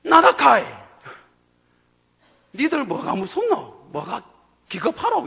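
blunt, teasing Gyeongsang dialect; Gyeongsang Jesus. Retold or imitated. Jesus teasing frightened disciples in Gyeongsang dialect. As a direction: scold them fondly like a Gyeongsang elder. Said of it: "그럼 이렇게 얘기하는 겁니다".

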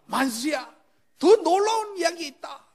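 들뜬 목소리로 크게 부르는 선배; 반가운 소식 전하듯 높고 크게. Retold or imitated. 선배가 말을 거는 장면. (신나서 크게 외치는 선배)

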